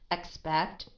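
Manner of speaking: expect going down, unemphasized; falling tone. Shown as a demonstration. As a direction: let "Expect" sink lightly. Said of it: "It goes down".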